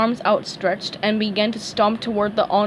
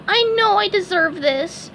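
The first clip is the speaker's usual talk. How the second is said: sad resignation; 9 semitones higher than usual. A narrator's reading. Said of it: "he said sadly".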